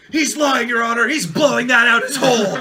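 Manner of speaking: loud, indignant courtroom objection; whiny tv court complaint. Pretend. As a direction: shout it to the judge, outraged.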